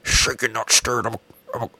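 lightly voiced bad Sean Connery impression; a hint of Connery's Scottish accent, badly done; half-hearted Scottish Connery accent; terrible Sean Connery. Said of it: "That is a terrible Sean Connery".

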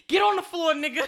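high, loud, mock holdup shout; mock gunpoint yell. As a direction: yell it like a stickup, half joking. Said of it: "she grabbed the gun and was like".

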